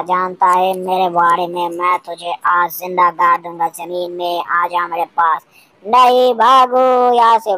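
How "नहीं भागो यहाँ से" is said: panicked cry. Acted. Monster coming, fleeing.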